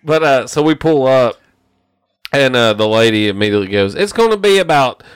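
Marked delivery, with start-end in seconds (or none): 3.9-5.0 auctioneer. Retold or imitated. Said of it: "It sounded like a fucking auctioneer".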